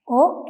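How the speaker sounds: ഓ as a long "oh"; English-like O. Shown as a demonstration. Teacher telling learners it matches English, long o pronounced. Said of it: "ഇംഗ്ലീഷിലേതുപോലെ തന്നെ".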